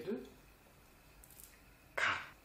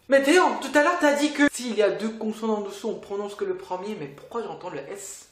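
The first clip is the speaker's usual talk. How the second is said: objecting student; 3 semitones higher, faster than usual. Acted. Student asking teacher why the S is heard, puzzled protest.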